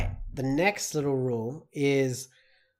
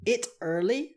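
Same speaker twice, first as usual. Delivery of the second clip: wrong example; 7 semitones higher than usual. Shown as a demonstration. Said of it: "you cannot say".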